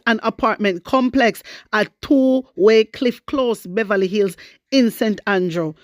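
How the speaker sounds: measured newsreader delivery reading the report; news read. Acted. Reading the opposition's demand to viewers, news-read style.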